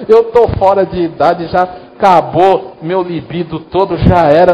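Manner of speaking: lightly acted scoffing, starting out of a laugh; mock incredulous Sara. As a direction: imitate Sara laughing off the promise. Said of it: "que Sara fez com o anjo". (imitando Sara, incrédula e debochada)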